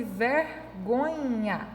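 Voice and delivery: "vergonha" slowly split into three syllables. Shown as a demonstration. Teacher counting syllables for pupils, "vergonha" said syllable by syllable. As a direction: separate each syllable of "vergonha". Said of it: "então tem três sílabas".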